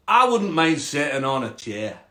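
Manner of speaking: put-on hopeful frog with a Scottish accent. Frog hoping for a chair, Scottish accent. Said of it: "a Scottish frog".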